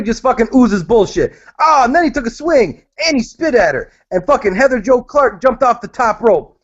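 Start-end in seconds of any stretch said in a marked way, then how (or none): 1.6-6.6 lightly hammed-up, higher-pitched retelling; mock excitement. Ridiculing a blown-up bar fight story, mock excitement. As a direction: pile it on as if it were a tall tale.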